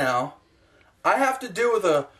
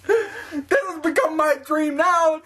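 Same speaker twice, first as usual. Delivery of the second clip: laugh-crying; 6 semitones higher than usual. Real, not acted. Laughing-crying at his own vlog.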